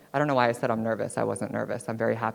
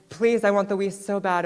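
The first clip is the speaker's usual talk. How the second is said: put-on kid pleading; 6 semitones higher, 4 dB louder than usual. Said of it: "And I was like".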